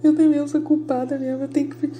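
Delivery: put-on wallowing in guilt; hammed-up woe-is-me whine; mock self-pity. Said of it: "Eu não fico".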